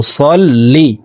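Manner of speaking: সল্লি with a thick, heavy emphatic s; slow সল্লি with a heavy s; emphatic sad sound. Shown as a demonstration. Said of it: "সদ হরফকে মোটা করে উচ্চারণ করব".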